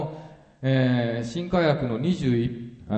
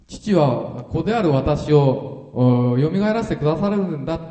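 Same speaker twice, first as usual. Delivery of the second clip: confident; 4 semitones higher than usual. Retold or imitated. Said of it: "という確信に満ちてますね".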